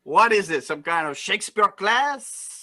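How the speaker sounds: lightly put-on Cajun accent. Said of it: "do this with a Cajun accent".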